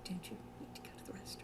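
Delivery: very soft, fast, calm near-whisper; Charlotte. Acted. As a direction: slip it to her calmly under your breath. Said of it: "so calmly".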